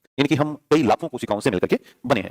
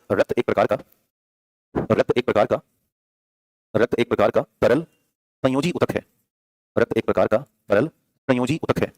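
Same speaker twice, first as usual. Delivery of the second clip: dictating; 2 semitones lower than usual. Shown as a demonstration. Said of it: "तो copy में लिखिएगा".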